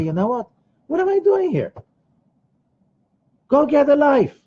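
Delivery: hammed-up fed-up cry; exasperated outburst. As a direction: snap yourself out of it. Imagined gambler shaking himself awake.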